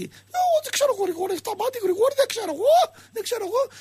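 high-pitched put-on Russian-Pontic voice; squeaky, rising Russian-Pontic impression; Russian-Pontic accent. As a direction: caricature a puzzled Russian-Pontic Greek on the line. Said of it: "απ' την άλλη γραμμή ο Ρωσοπόντιος αρχίζει".

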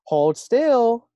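high, loud eager order; high excited command. Acted. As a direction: squeal it out, eager and bossy. Girl grabs the frog.

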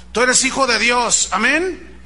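imitated rousing preacher, pitch lifting; manipulative preacher. Pastor working on his congregation, manipulative rousing. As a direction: prompt the congregation for an amen. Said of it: "Meter la manipulación emocional".

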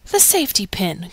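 usual speaking voice

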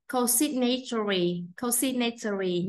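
"Consignatory" with the stress on SIG; second-syllable stress. Shown as a demonstration. Teacher modelling stress for students, second syllable of "Consignatory" stressed. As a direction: sound out "Consignatory" carefully, leaning on its second syllable. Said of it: "nhấn âm hai".

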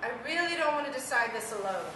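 fast, tearful words; crying. Real, not acted. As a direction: speak through tears. Tearful plea before laughing.

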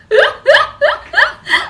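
loud, very high-pitched cackle; high burst of laughter. Real, not acted. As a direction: crack up helplessly. (高音爆笑)

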